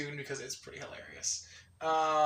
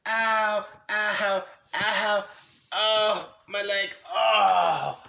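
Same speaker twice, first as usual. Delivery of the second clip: loud, higher repeated yelps; in pain; 4 semitones higher, 7 dB louder, much slower than usual. Real, not acted. Freeing a leg pinned underneath, pained yelps. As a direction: groan out each ow separately. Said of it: "had my leg pinned underneath my butt".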